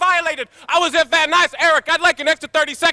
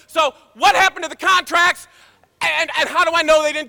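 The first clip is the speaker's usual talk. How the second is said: louder, pressing question to the council; loud demand; 3 semitones higher, 3 dB louder than usual. Real, not acted. A speaker at the council demanding the contracts back, loudly. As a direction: hammer the question home.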